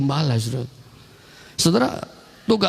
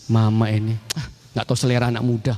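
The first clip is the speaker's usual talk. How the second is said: low, quick grumbling retort; dismissive youngster; 5 semitones lower than usual. Acted. Child answers mama about young people's taste, quick dismissal. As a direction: brush a parent off quickly.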